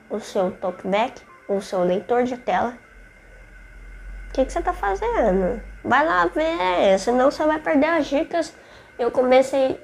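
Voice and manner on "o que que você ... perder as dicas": playful scolding. Acted.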